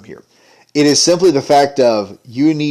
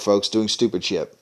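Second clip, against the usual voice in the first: a disgusted aside, unvoiced; whispered aside; 4 semitones lower, 6 dB quieter than usual. Real, not acted. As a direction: whisper it to the viewers. Aside to viewers.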